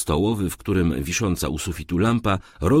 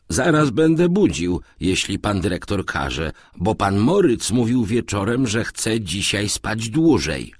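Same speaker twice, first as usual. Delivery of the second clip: lightly voiced servant, raised pitch; a hint of an eager servant; servant reporting; 5 semitones higher than usual. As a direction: report dutifully to the master. Servant answers his master.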